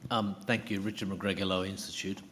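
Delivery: talking around a lolly; sweet in mouth while speaking; mouth full. Real, not acted. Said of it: "I've just got a lolly in my mouth".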